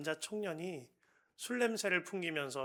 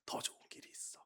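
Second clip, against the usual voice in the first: soft secret; 9 dB quieter, faster than usual. Retold or imitated. Father gently advising son.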